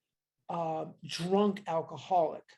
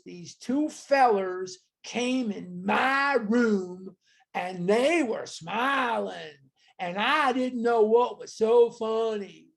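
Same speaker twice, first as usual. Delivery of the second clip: slow Kentucky drawl, a touch louder; Kentucky accent; 4 dB louder, slower than usual. Retold or imitated. Teacher imitating Bill Dotson's Kentucky accent, slow and light. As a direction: lightly imitate an old Kentucky man recalling. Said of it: "like that".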